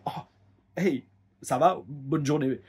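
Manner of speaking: slow, breezy imitation of a polite brush-off; Regal brushing him off. Regal greeting the heavier trainee, slow mock politeness. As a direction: drag out the greeting, then wave him off. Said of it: "il a juste fait".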